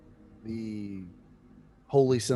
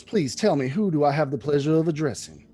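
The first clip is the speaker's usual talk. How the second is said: a touch higher, quick courteous monk; genial abbot; 3 semitones higher, 5 dB louder than usual. Acted. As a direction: ask politely like a cheerful cleric. Abbot asks names.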